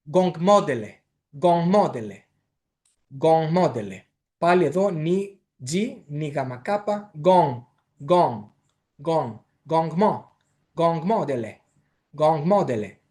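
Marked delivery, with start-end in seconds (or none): 0.1-4.0 ΓΚΟΝΓΚΜΟΝΤΕΛΕ with nasal ng, stress on ΜΟ; pronunciation model. Shown as a demonstration. Teacher giving the evening greeting, careful pronunciation model. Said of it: "εκεί έχουμε". 7.2-13.0 ΓΚΟΝΓΚ first, then built up to ΓΚΟΝΓΚΜΟΝΤΕΛΕ; step-by-step pronunciation. Shown as a demonstration. Teacher building the greeting syllable by syllable, careful pronunciation. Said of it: "έτσι".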